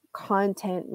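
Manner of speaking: content said CON-tent, the noun; weight on CON in content, open first vowel; stress on first syllable. Shown as a demonstration. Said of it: "if you highlight the first syllable".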